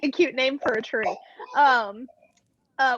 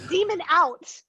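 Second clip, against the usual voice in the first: hushed repeat; whispered; 5 semitones higher, slower than usual. Acted.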